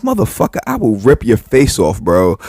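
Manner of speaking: imitated angry threat; retold threat.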